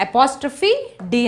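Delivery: carefully spelled, a little slow; slow spelling out. Shown as a demonstration. Teacher spelling a contraction slowly for students. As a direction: spell "apostrophe D" slowly and deliberately. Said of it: "I did వచ్చినప్పుడు".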